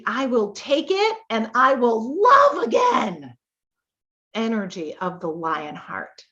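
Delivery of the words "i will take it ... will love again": defiant shout. Retold or imitated. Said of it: "no, like".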